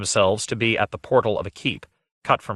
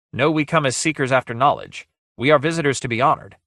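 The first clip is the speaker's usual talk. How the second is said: higher, insistent demand; lightly voiced bold hero; 4 semitones higher than usual. Guile demands light before entering the dungeon, lightly voiced insistence. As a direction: insist on your rights as a guest.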